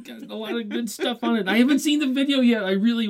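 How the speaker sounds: high and loud, bubbling over about the album; a fan bursting to talk about a singer's album, high and loud; excited gushing. Real, not acted. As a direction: gush like a fan who can't contain it.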